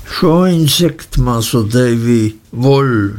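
put-on rustic fisherman boy crowing with delight; delighted shout. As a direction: call it out, thrilled to bits. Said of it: "schrie Ham entzückt".

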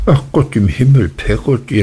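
a mother's quick exasperated exclamation; exclaiming. A narrator's reading. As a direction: blurt it out in exasperation. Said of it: "rief meine Mutter".

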